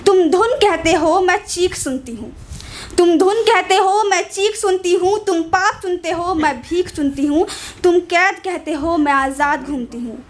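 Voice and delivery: measured, solemn spoken-word recital; poem recital. Acted. Poet reciting her poem to the audience, solemn recital. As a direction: deliver the poem line by line with weight.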